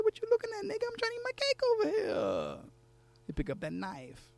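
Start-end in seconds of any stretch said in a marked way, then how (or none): 0.0-2.7 much higher, tough street challenge. Acted. Worker squares up to the staring boss, high and defiant. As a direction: throw it at him like a dare. Narrator confronts boss in poem.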